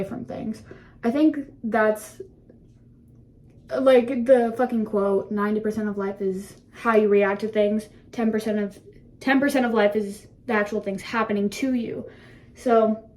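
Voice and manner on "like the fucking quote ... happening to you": slightly breathless talking; out of breath. Real, not acted. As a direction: talk while short of breath. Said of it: "I'm out of breath".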